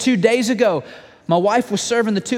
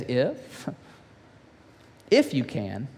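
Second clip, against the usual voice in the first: quiet echo; 8 semitones lower, 6 dB quieter, much slower than usual. Acted. Jesus echoes the father's doubt.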